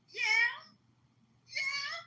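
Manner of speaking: very high, loud triumphant yeah; gleeful yeah. Real, not acted. Telling listeners the nephew came through, a loud gleeful yeah. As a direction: crow it out with delight.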